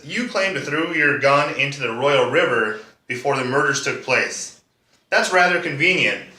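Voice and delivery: sceptical prosecutor. Acted. D A questions the gun story, lightly played sceptical prosecutor. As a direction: press the witness with mild theatrical scepticism. D A challenges the witness's alibi.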